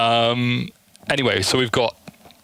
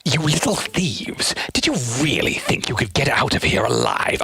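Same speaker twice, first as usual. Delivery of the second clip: villain line; 4 semitones higher than usual. Pretend. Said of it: "I think it's "make it out of here alive" is the line".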